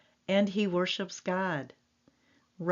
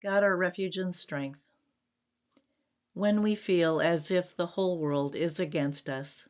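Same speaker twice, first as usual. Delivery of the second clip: closing prayer. Acted. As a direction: pray it sincerely to God.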